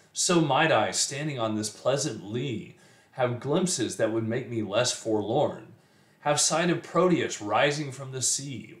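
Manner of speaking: expressive, measured poetry reading; poem recitation. Acted. Teacher reading a sonnet to students, poem recitation. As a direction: recite the verse, letting each phrase land. Let me read that for you.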